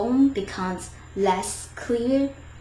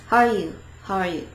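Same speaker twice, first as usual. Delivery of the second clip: fast, words linked together; quick, casual, all in one go; quick native delivery; 3 dB louder, faster than usual. Shown as a demonstration. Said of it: "say it really quickly".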